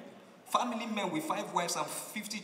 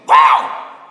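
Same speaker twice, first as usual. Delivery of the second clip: a breathy, much louder exclamation; shocked wow; 3 semitones lower, 22 dB louder than usual. Retold or imitated. Visitor reacting to the broken bottle, loud shocked wow. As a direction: gasp it out in shock.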